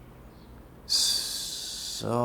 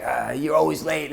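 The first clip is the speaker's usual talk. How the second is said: high, drawn-out complaint of an angry mom; mock screaming; 8 semitones higher, 4 dB louder than usual. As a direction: imitate her nonstop griping, slowly. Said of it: "she won't stop screaming".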